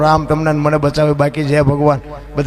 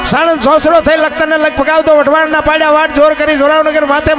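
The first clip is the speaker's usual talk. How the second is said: poem recital; 8 semitones higher than usual. Acted. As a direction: chant the village list faster and fiercer, like the quake spreading. Folk storyteller recites earthquake poem.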